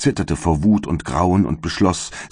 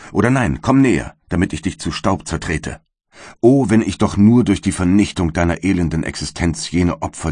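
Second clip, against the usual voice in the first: furious defiance. Acted. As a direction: hurl the words at the monster he created. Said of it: "rief ich aus".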